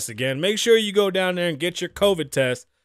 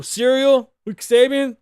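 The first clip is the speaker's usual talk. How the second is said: louder, hyped show title announcement; show title pitch; 5 semitones higher, 6 dB louder than usual. Shown as a demonstration. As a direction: announce "Serial with Kasabian" like a TV title. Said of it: "my show".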